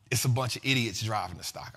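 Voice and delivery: imitating Buffett in a low whisper; a retold insult, whispered low; hushed quote. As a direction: whisper it like a shocking secret. Retelling Buffett's harsh Bitcoin remark.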